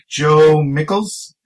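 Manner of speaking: slow, drawn-out announcer calling Joe Mickles; announcer mangling name. Retold or imitated. Announcer misreading the winner's name, slow mock call. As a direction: draw the name out like a bad presenter. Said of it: "Maybe he was like".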